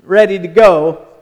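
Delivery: fast, offhand inner voice; breezy aside, let them row; lightly voiced, amused Jesus; Jesus' musing. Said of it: "I don't know if he was like".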